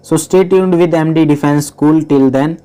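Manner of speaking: drawn-out channel outro; slow sign-off. Acted. Teacher signs off to viewers, slowly. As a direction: stretch each word of the sign-off. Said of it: "sign-off".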